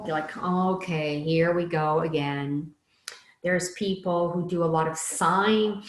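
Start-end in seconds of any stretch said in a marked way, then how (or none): 0.4-2.7 eye-roll weariness. Retold or imitated. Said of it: "do the eye roll".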